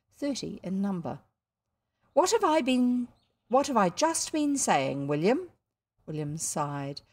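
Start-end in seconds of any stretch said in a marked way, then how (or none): 2.1-5.5 louder, higher reproach; lightly voiced schoolmistress; scolding teacher. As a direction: catch the daydreamer out.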